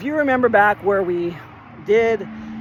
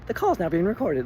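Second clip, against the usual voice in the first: sweet recorded voice; 4 dB quieter than usual. Retold or imitated. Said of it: "this, like, sweet ass voice".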